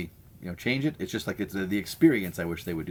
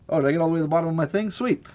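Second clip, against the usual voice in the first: delighted surprise; 9 semitones higher, 4 dB louder, much faster than usual. Real, not acted. Reaches end of chat comments.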